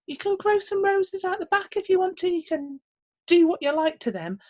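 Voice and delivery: bossy little man. Acted. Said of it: "said the little man".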